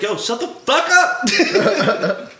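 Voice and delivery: high, loud, drawn-out mock shout; exasperated holler, played for laughs; retold yell. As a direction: yell it across the room, half laughing. Retelling a shouted tournament argument.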